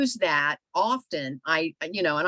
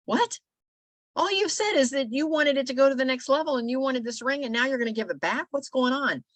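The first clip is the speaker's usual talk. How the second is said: much higher, incredulous "What?"; can't believe she'd give it back; high, stunned questioning; shocked disbelief; 6 semitones higher than usual. Retold or imitated. Coworkers shocked she'll return it.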